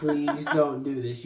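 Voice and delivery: slow, firmer plea amid laughter; repeated mock plea. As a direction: repeat it slowly, with a laugh around it.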